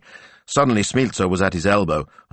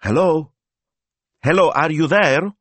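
calling softly; 11 semitones higher, 5 dB louder than usual. A narrator's reading. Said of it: "a voice called softly".

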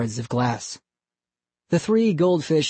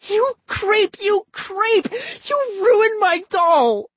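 much higher, louder furious yell; furious screaming; 4 dB louder, slower than usual. A narrator's reading. Molly screams at Ian while punching him, furious. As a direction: pound the words like fists. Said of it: "too furious to hear him".

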